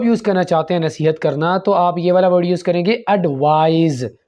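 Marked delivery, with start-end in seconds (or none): 3.1-4.2 एडवाइज ending in a buzzing z; advise with z. Shown as a demonstration. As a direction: verb advise, z sound. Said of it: "ना कि एडवाइस".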